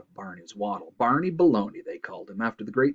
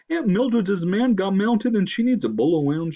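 loud, raised moose voice; congested moose; 10 semitones higher, 6 dB louder than usual. A narrator's reading. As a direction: explain it loudly through a head cold. Moose character explains.

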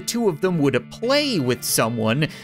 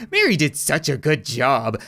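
talking doll; 4 semitones lower than usual. Acted. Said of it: "doll speaking".

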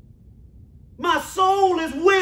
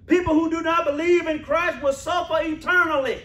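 preaching shout; 3 semitones higher than usual. Real, not acted. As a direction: drive the warning home. Preacher repeats warning to church.

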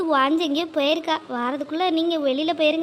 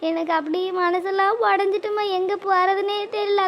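distressed pleading; 3 semitones higher than usual. Acted. Daughter pleads after suicide attempt.

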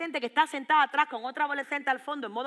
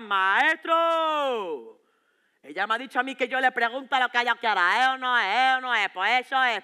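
put-on louder cocky teenager pleading with the teacher; whiny teen protest; 3 dB louder than usual. Teen student protests loudly to his teacher, indignant.

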